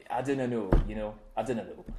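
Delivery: a Scottish accent with "dinnae ken" vowels. Shown as a demonstration. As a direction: keep the Scottish brogue going. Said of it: "Why are you so good at this".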